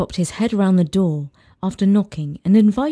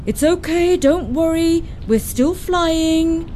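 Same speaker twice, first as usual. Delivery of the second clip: slow, higher, gentle reassurance; calm the frightened kids; father soothing his daughter during the storm, slow and gentle; 9 semitones higher, slower than usual. A narrator's reading. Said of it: "said Dad soothingly".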